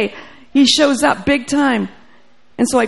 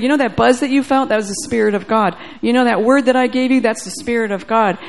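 rising, louder prophetic declaration; declaring over him; 3 dB louder than usual. Retold or imitated. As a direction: preach it over him with full conviction. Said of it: "I declared and decreed over him".

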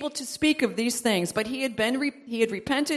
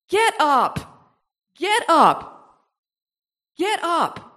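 louder, pressing preacher's call; urgent call to rise; rousing command; 3 semitones higher, 4 dB louder, much slower than usual. Real, not acted. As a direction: rouse them to their feet. Preacher urging congregation.

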